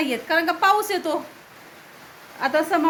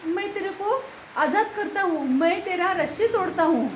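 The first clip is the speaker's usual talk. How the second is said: higher, slower mock-grand Hindi promise; playful Hindi to the dog; 6 semitones higher than usual. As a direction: tease the dog like a film hero freeing him. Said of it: "त्याला म्हणतो". (कुत्र्याशी गमतीने उंच, सावकाश हिंदीत)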